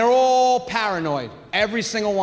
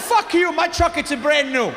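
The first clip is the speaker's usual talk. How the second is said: indignant father; 3 semitones higher than usual. Retold or imitated. Father misunderstands triple A, comically outraged. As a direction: imitate a father telling off a clerk. Father cursing out store clerk.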